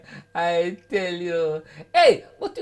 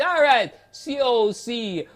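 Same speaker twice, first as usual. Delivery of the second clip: 1 slow spelled order; 2 semitones higher, 5 dB louder, slower than usual. Retold or imitated. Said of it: "So he say".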